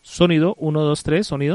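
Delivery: very loud, level mic check; prueba de micrófono. Real, not acted. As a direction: test the mic loudly, rising at the end. Probando el sonido de la emisora. (prueba de sonido en voz muy alta)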